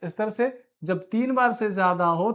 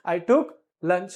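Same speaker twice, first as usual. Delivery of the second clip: slowed, louder model take; slow, louder repeat; 5 dB louder, much slower than usual. Shown as a demonstration. Teacher repeating slowly so students copy. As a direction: say it again slowly for them. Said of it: "फिर से बोलो".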